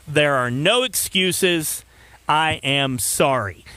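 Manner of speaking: slow, deliberate read-aloud; measured delivery with pauses between sentences; formal statement reading. Acted. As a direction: read out an official apology, weighing each phrase. Reads team president's statement on air.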